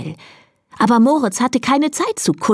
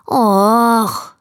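a drawn-out, lightly mewed sigh; cat's meowy whine; 3 semitones higher, 3 dB louder than usual. A narrator's reading. Cat Moritz has no answer for his friend, mewing. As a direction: mew it out, at a loss. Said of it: "maunzte Moritz".

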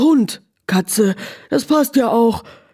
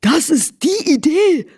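delighted; 5 semitones higher than usual. Acted. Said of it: "wieherte das Pferd begeistert".

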